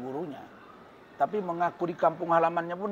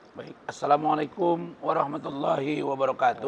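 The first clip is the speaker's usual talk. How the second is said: hoarse voice. Real, not acted. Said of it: "suara saya agak serak nih".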